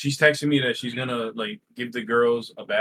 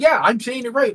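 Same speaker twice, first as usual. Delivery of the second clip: retold insistence; 11 semitones higher, 4 dB louder than usual. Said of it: "I'm getting frustrated".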